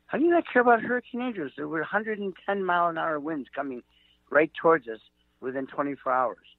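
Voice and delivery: disbelief. Retold or imitated. Disbelief at stranger's indifference.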